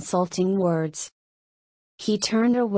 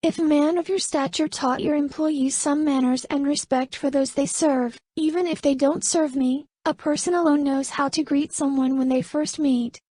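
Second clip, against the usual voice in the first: higher, proud and cutting woman's voice; defiant young woman; 7 semitones higher than usual. Acted. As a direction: put him in his place, politely sharp. Narrator voices Camelia high.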